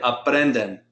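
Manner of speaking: "Aprenden" as a-PREN-den; second-to-last syllable stress. Shown as a demonstration. Teacher asking student to say it, "Aprenden" stressed on PREN. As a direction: put the weight on PREN in "Aprenden". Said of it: "put that stress on the second to last syllable".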